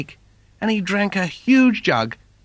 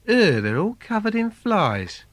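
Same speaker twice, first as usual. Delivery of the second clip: disgusted Simon; 6 semitones higher than usual. Acted.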